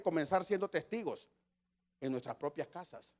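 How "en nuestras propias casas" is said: baja la voz en "propias casas" y sube el tono al final. Real, not acted. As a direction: dilo suave, casi para sí, "En nuestras propias casas". Repite la frase para recalcarla. ("propias" dicho bajito con subida al final)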